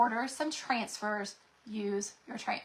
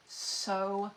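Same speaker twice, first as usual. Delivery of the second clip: breathy whisper, much softer; hushed admiration; 6 dB quieter, slower than usual. Real, not acted. Crafter whispering to viewers over pretty transfers. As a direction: sigh it out in a whisper.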